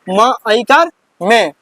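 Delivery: "म", "ऐकार", then "में", each slowly drawn out; teacher slowly building "में" from "म" and its vowel sign; spelling out syllable. Shown as a demonstration. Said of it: "क्या पढ़ेंगे इसको?".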